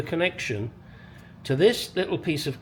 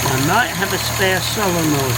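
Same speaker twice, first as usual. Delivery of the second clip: hiccup breaking the words; interrupted by a hiccup; suppressing hiccups; 3 semitones higher, 6 dB louder than usual. Real, not acted. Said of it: "Oh, sorry, hiccups".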